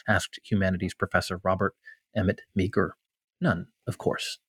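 measured, fluent literary reading; essay reading aloud. Acted. Writer reading a war essay to an interviewer, measured read-aloud voice. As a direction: read it out evenly, with deliberate pauses between thoughts.

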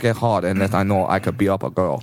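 put-on Japanese accent. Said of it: "that's Brad's Morgan Freeman".

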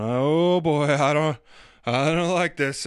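mock uneasy skier eyeing the drop; slow, reluctant "oh boy" worry; acted dread. Acting out dread atop the mountain.

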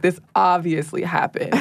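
mild deadpan, stating it as settled fact; plain matter-of-fact. Retold or imitated. Imitating a ghost-video narrator stating dubious events, plain matter-of-fact. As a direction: say it plainly, as if beyond question. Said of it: "said in the most plain".

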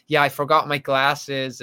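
put-on slow American-accented stage line. Actor imagines covering forgotten glasses onstage, American accent. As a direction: answer slowly in an American accent. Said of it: "you just spoke with an American accent".

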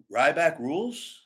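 slow, questioning rise on Ryback Rules; doubtful catchphrase. Shown as a demonstration. Wrestler mocking an unsure catchphrase. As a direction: say it like you're unsure. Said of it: "What do you believe?".

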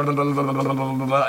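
usual speaking voice

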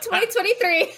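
giggling through the year; laughing. Real, not acted. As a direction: laugh while saying it. Laughing teasing year announcement.

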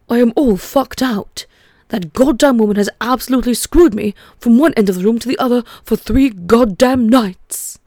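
a hint of an upper-class English gent; Roald Dahl posh English. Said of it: "I'm gonna try and give him a posh English voice".

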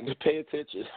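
hoarse, worn-out voice; voice giving out. Real, not acted. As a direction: voice strained from yelling. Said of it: "I'm losing my voice now from yelling".

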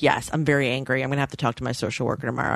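low, matter-of-fact imitation of anger; calmly stated anger. Quoting roommate on her failed placement, calmly stated anger. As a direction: report being angry without yelling. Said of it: "so you're not yelling about it".

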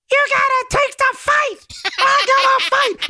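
mock squeaky high-pitched tough talk, laughing; de Blasio squeaky voice. Host mocking the mayor's glitched speech, squeaky and high. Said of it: "So de Blasio's like".

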